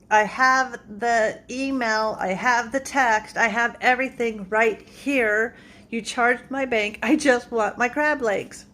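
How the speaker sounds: slow, emphatic retold complaint; retold insistence. Customer arguing with the store over crab legs, exasperated. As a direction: list each proof slowly, with mild exasperation. Acted quarrel at customer service.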